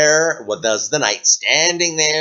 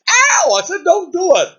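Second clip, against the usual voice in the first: much higher, louder hammed-up yell; mock pained shout; 7 dB louder than usual. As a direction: shriek in comic protest. Dragon hit again.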